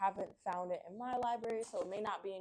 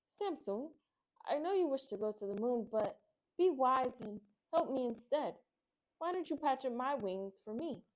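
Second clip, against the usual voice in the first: somewhat higher gentle plea; lightly voiced butterfly asking for help; butterfly pleading; 4 semitones higher than usual. Butterfly with broken wings asks Samson to patch them, lightly higher. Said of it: "The butterfly continued".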